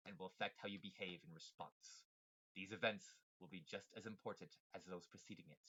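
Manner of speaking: low, measured villain monologue; evil villain voice. Acted. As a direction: read it like a scheming villain. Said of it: "evil villain voice".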